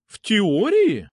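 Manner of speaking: exclaiming. Acted. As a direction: throw the word back in surprise. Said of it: "воскликнула она".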